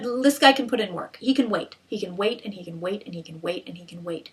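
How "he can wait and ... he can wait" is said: each repeat softer and lower; fading repetition. Real, not acted. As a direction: let it sink away gradually, as if waiting forever. Repeats to show endless patience.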